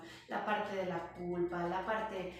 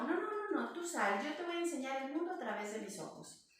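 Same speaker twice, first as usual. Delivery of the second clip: high, insistent mother; 5 semitones higher than usual. Retold or imitated. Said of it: "la mamá dice".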